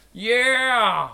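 loud high cheer; excited cheer. Acted. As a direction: whoop it out. Cheer in battle.

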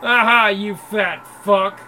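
slow loud jeering insult; loud slow taunt. Acted. Thug jeering at the big man, slow and loud. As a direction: drag out the jeer to humiliate him.

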